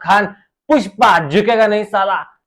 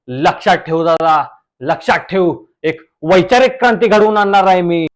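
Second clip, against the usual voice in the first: reel star guest voice; 4 semitones lower than usual. Acted. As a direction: play the smug village reel star. (Reel स्टारचा आवाज)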